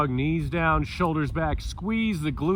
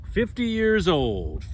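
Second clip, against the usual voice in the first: Molly Shannon voice; 5 semitones higher than usual. Acted. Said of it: "I sound like Molly Shannon".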